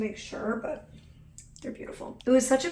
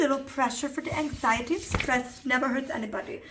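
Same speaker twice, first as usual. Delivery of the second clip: lightly voiced cute dog; 2 semitones higher than usual. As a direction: speak as the little dog, sweetly. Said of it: "He says".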